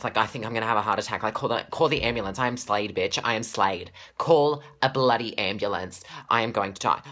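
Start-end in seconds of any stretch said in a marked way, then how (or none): 2.4-7.0 overwhelmed fan. Real, not acted. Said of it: "I was shaking and I'm really teary".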